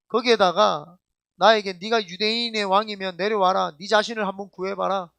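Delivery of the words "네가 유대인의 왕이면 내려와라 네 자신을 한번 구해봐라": lightly acted jeering crowd, a little louder; a touch of taunting challenge; mild mocking. Pastor voices the crowd jeering at Jesus, mildly mocking. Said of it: "막 하면서 조롱하고".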